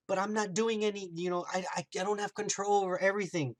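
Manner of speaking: retold helpless plea of innocence; playing the victim. Wanda denies controlling the town, playing the victim. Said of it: "she tries to play the victim".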